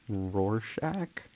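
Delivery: "Rorschach" with a full final k, rising; unsure Rorschach try. Shown as a demonstration. Streamer trying a new pronunciation, unsure rising. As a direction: test "Rorschach" ending in a hard k. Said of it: "that sounds worse".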